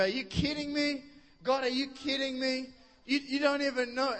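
incredulous whine at God; exasperated believer. Retold or imitated.

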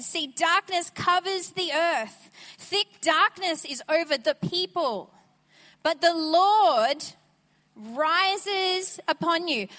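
darkness weighted, then But the Lord drawn out loud and slow. Shown as a demonstration. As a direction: lean in hard on the second reading. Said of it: "I'm gonna say it again".

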